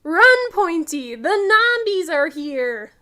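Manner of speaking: frightened dinosaur calling to Pointy; panicked. Acted. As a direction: yell to a friend in a rush. Panicked escape to the fort.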